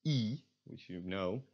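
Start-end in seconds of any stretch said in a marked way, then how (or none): 0.0-0.4 "E" as a long ee; plain ee sound. Shown as a demonstration. Teacher gives the starting sound, long "E". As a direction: hold "E" with unrounded lips. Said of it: "just pronounce".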